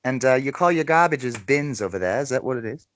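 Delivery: casual Aussie accent attempt; American putting on an Australian accent. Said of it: "Your accent's quite good".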